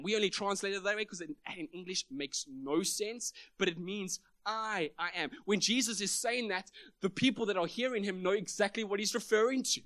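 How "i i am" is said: first "I" held alone, then "I am"; emphatic I. Shown as a demonstration. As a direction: lean on "I", pause, repeat it. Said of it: "it's emphatic".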